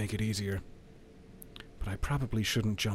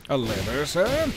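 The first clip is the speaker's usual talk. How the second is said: mock incredulous; 3 semitones higher, 4 dB louder than usual.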